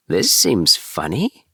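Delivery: slow, puzzled kitten voice; Tom Kitten. Acted. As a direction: draw it out, wary little kitten. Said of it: "said Tom Kitten".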